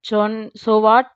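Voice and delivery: slow drawn-out mock of a careless so what; mother mimicking daughter's breezy reply, slow; mocking imitation. Mother complaining to husband, slow mocking imitation. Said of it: "అంటూ ఎంత ఈజీగా అనేసి".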